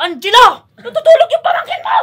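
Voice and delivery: high, loud scolding shout with a laugh; yelling older sister. Retold or imitated. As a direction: play the sister shouting him down. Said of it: "Naglibat yung ate". (sigaw ng galit na ate, mataas at malakas)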